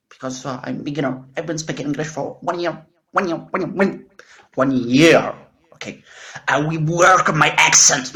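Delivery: slow, halting English with a heavy French accent; strong French accent. Real, not acted. Shy beginner asks viewers for help, heavy French accent. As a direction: labour through English in a thick French accent. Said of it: "J'ai un accent français trop prononcé quand je parle anglais".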